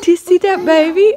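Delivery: high, loud coaxing question; excited pet talk. Real, not acted. Showing the dog the new baby, excited. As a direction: coax a pet with eager high voice.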